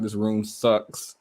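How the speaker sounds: slow, drawn-out "This room sucks"; blunt complaint. Retold or imitated. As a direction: drag out "This room sucks" flatly and slowly. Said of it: "I didn't say it like that".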